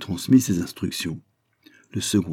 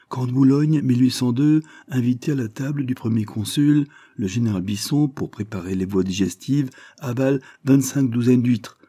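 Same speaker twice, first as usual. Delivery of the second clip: triumphant captain; 4 semitones higher than usual. Acted. Captain crowning his general's boast, triumphant. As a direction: land the boast proudly. Daubenton tells oyster feat.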